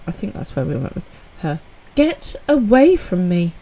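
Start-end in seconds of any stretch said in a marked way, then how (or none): 2.0-3.5 posh bratty voice. Acted. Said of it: "I think she was a bit posh".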